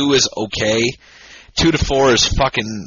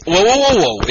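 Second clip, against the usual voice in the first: high, louder urgent stop; urgent whoa; 6 semitones higher, 3 dB louder than usual. Real, not acted. Stopping cohost from finishing his beer, urgent. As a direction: halt him before he drinks.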